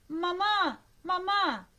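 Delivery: high, loud cries for mother; children screaming. A narrator's reading. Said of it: "entonaron un coro de gritos". (gritos agudos de niños asustados)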